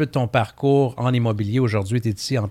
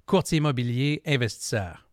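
boxing ring announcer; 5 semitones higher than usual. Acted. Boxing ring intro of guest.

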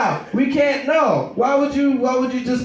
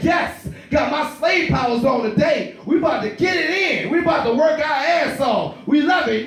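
hyped worker; 2 semitones higher than usual. Retold or imitated.

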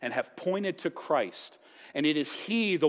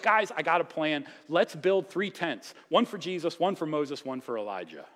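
eager Peter; 3 semitones higher than usual. Retold or imitated. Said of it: "So he's like".

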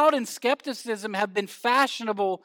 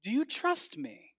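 voice from above; 6 semitones higher, 4 dB quieter than usual. Acted. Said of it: "the voice from over the cliff said back".

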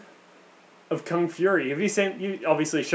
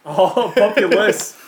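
"populous" slowed down, louder, with a laugh; drawn-out echo; 3 semitones higher, 5 dB louder, slower than usual. Real, not acted. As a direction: stretch out "populous" in amused realisation. Echoes the correction, amused.

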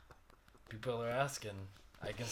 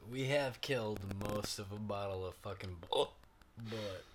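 hiccups. Real, not acted. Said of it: "I got the hiccups right now".

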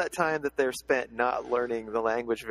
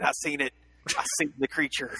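hillbilly witness voice; 2 semitones higher than usual. Retold or imitated.

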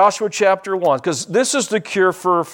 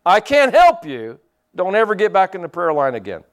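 stern rebuke; 3 semitones higher, 3 dB louder than usual. Retold or imitated. Pastor sending the man out of the prayer line, loud and stern. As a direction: shut him down firmly. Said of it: "and I yelled at him".

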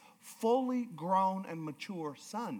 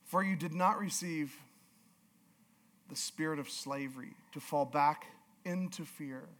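low, soft, measured Bible reading; scripture reading; 4 semitones lower, 6 dB quieter than usual. Acted. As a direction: read the verse quietly and gravely. Reads scripture aloud.

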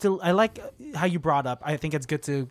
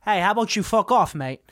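louder, higher belligerent customer retort; mock belligerence, pitched up and loud; drunk bigwig; 5 semitones higher, 5 dB louder than usual. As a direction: tell them off like a cocky drunk big shot. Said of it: "this, like, drunk bigwig is like".

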